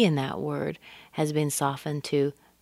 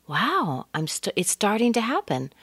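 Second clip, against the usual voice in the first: higher-pitched wow of amazement; amazed; 6 semitones higher than usual. Shown as a demonstration. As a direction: react as if it is finally happening. Shows feeling behind stressed starting.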